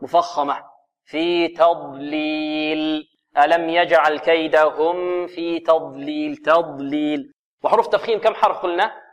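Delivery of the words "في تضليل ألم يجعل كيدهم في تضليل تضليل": slow chanted تضليل with thin ت and thick ض; drawn-out tajweed recitation, emphatic daad in تضليل; light taa, heavy daad. Shown as a demonstration. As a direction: keep the ت light, then fill the mouth on ض in تضليل. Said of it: "مرققة، والضاد مفخمة".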